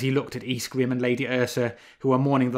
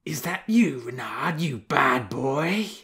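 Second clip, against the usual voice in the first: dreamy she-wolf voice; 3 semitones higher, 4 dB louder, slower than usual. A narrator's reading. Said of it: "Lady Ursa spoke aloud in her dreams".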